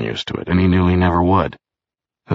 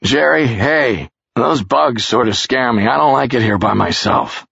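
scared plea; 6 semitones higher, 3 dB louder than usual. A narrator's reading. Charles calls to Jerry that the bugs scare him, scared. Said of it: "he said suddenly".

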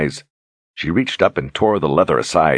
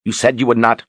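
pleading Mord-Sith; 6 semitones higher than usual. A narrator's reading. Berdine confronts Richard.

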